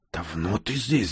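slow, softened question; lightly hushed, unhurried; mild whisper. A narrator's reading. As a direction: ask it under your breath. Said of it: "зашептал он".

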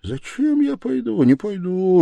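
very high, protesting voice; agitated refusal. A narrator's reading. Man refusing Sonya's command, agitated.

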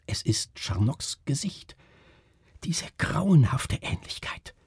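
a touch of a horrified moan. A narrator's reading. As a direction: groan it out in dismay, slowing on the last words. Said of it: "stöhnte Melchior Kreuzer".

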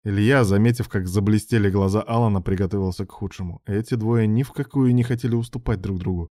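usual speaking voice

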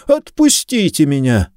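high, choked plea; strangled protest. A narrator's reading. Suspect pinned against the sink demands release, strangled cry. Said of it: "Его голос прозвучал сдавленно и приглушённо".

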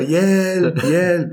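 high, mock cry for help; calling for help. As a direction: imitate her calling out in a panic. Partner crying for help from bathroom. (ljust, spelat rop på hjälp)

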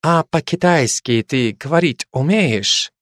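put-on slow Baltic-accented question. Old driver asking the Kazakh, in a Baltic accent. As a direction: ask slowly with a Baltic accent. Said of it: "с явным прибалтийским акцентом".

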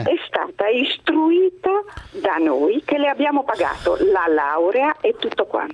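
phone-line voice; over the phone. Real, not acted. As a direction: caller heard through a telephone. Caller on the line. (al telefono)

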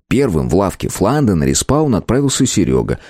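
ordinary delivery

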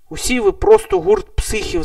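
high, loud laughing jab; high-pitched laughing tease. A narrator's reading. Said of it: "засміявся Сем".

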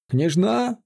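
high-pitched scared question; terrified sentry's squeak; frightened squeal. A narrator's reading. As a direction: squeal it in panic. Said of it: "испуганно взвизгнул горе-дозорный".

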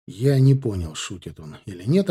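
plain reading voice

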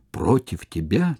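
a mild, shaky frightened echo; a touch of fear, asking his commander; trembling question. Acted. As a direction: ask it trembling before the general. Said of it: "трепеща вопрошает Децим".

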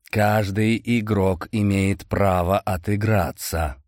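slow, hoarse rasping voice. Acted. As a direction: rasp it like a draught. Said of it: "Его голос был хриплым и больше походил на сиплый сквозняк".

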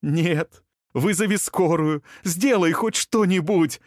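rising panicked shouting; frantic scream. A narrator's reading. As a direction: scream at him to act. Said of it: "закричала Илая".

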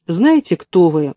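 ordinary delivery, nothing marked

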